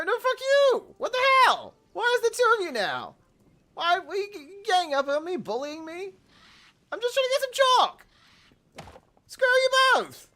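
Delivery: very high, loud outraged shrieks; shrieking outrage. Real, not acted. Player shrieking at two chickens ganging up on him. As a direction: screech it at both birds, feeling ganged up on.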